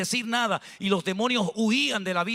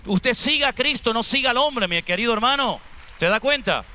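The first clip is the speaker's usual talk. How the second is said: higher, louder exhortation; preaching emphatically; 4 semitones higher, 4 dB louder than usual. Real, not acted. Preacher urges the congregation to follow Christ, loud. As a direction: drive the point home from the pulpit.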